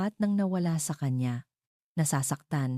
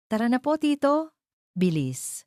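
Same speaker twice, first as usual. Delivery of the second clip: put-on high, louder excited little boy; eager child; 9 semitones higher, 3 dB louder than usual. Leo rushing his tito to the starting line, excited high child voice. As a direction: tug at him, can't wait to run.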